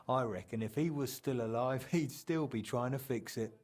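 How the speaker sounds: a fond laugh for a lost friend; fond laughter. Acted. Friend chuckles imagining Martin still fixing the clock.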